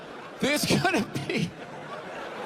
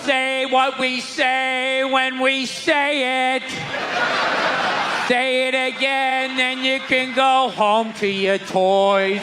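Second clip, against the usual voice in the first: mock church teacher; 2 semitones lower, 3 dB louder, slower than usual. Church voice mocked, slow.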